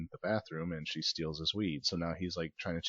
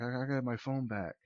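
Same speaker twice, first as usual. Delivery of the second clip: mock panic; 7 semitones higher than usual. Panicking about his missing phone.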